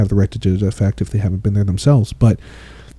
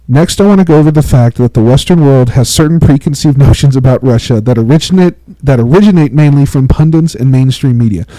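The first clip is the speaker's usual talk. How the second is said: reading from notes; 2 semitones higher, 5 dB louder than usual. Shown as a demonstration. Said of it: "actually I'm gonna read this part verbatim".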